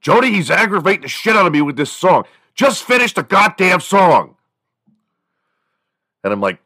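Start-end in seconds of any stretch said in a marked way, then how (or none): 0.0-4.4 high, loud exasperated dad yell; father yelling to mom about the son's song, loud and high; imitated yelling. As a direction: shout in fed-up frustration, higher. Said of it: "he's yelling at my mom".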